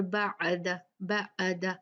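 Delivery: "बाद" split as "ba-ada"; "बाद" broken into separate syllables; wrongly broken ain. Shown as a demonstration. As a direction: put an extra vowel before "द" in "बाद". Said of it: "ऐसे भी नहीं पढ़ना".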